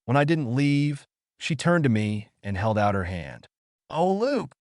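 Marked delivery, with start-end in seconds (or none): 3.9-4.5 higher, urgent cry of his name; exclaiming. A narrator's reading. Sister exclaiming to Luke, pitched high. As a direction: call his name out with feeling. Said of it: "she exclaimed".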